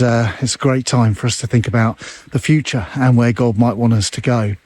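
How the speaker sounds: puffing while walking uphill; breathless, talking between breaths. Real, not acted. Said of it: "Excuse me if I'm a little bit out of breath".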